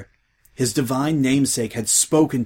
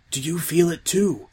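lightly higher, wondering; awestruck; 6 semitones higher than usual. A narrator's reading. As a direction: ask in hushed wonder.

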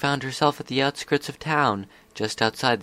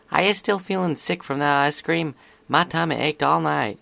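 put-on higher-pitched young filly voice; Apple Bloom, concerned; 5 semitones higher than usual. Apple Bloom asking Scootaloo about ice cream, concerned.

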